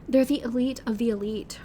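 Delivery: a touch of awed nervousness; trembling voice. A narrator's reading. Friend explains the soccer players, mildly trembling. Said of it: "Her voice trembles genuinely".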